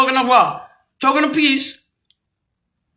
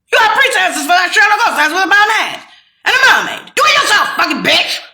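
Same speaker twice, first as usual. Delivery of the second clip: angry shout; 5 semitones higher, 3 dB louder than usual. Real, not acted. Angry rant at imagined Americans.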